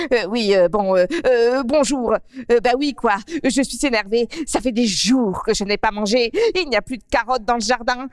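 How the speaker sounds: a starving rabbit grumbling for food; hungry grumpy rabbit. Acted. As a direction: lapin affamé et grognon. Narrator plays hungry rabbit Bidou.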